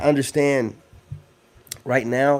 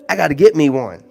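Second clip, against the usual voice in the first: one louder, certain; emphatic; 6 dB louder than usual. Shown as a demonstration. To the ladies in chat, louder and certain. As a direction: say it like a decision.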